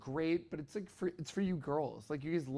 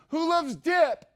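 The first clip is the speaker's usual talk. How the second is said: high, loud sing-song call down the hallway; 11 semitones higher, 9 dB louder, slower than usual. Retold or imitated. Mom calling out from down the hallway, high sing-song call. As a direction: belt it out like a cheery hostess.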